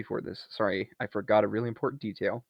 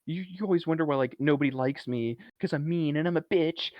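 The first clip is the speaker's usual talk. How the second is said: super pissed; 5 semitones higher than usual. Retold or imitated. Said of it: "Alice is super pissed".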